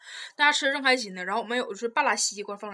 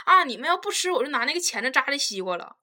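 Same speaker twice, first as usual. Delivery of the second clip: mock clueless girlfriend; 4 semitones higher, 5 dB louder than usual. Girlfriend's reply acted out.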